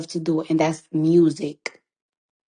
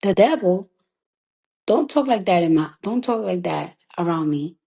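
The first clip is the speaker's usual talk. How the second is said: imitating shocked mom. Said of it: "She was like".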